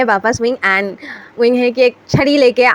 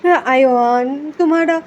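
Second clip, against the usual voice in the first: groaning in pain; 2 semitones higher than usual. Acted. Beaten grandfather groaning on sofa.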